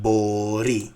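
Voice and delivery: μπορεί stressed on ρεί; stress on last syllable. Shown as a demonstration. Teacher showing where stress falls, μπορεί stressed at the end. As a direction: lean on the final syllable of μπορεί. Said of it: "on the last syllable".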